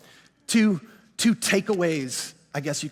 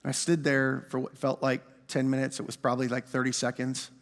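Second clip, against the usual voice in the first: hushed; 9 semitones lower, 8 dB quieter than usual. A narrator's reading. Retelling God's voice in closet.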